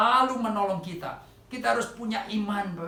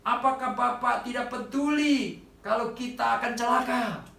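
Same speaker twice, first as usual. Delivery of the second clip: mock cry for help; 5 semitones higher than usual. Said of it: "Mereka berteriak".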